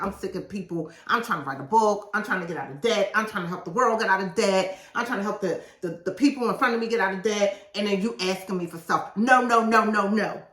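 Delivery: retold angry rant building to loud repeated no. Author retelling how angry she was writing, building to shouting. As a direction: vent frustration, rising to shouting no. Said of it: "I was angry 'cause I was like".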